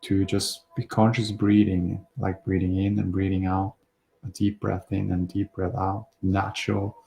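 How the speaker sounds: calm, unhurried breathing guidance with pauses; relaxed meditation voice, slightly hushed, phrase by phrase; guided meditation. Real, not acted. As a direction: gently guide listeners through their breathing.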